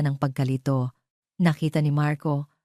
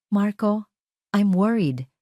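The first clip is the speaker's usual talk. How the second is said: worried; 5 semitones higher, slower than usual. A narrator's reading. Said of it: "Ang boses ay puno ng pag-aalala".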